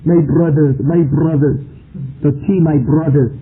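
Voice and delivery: put-on light Pakistani accent on "my brothers". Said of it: "talk with a Pakistani accent".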